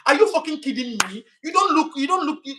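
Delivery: annoyed high-pitched comeback; exasperated. Real, not acted. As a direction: fire back at the commenter. Angry at a viewer comment.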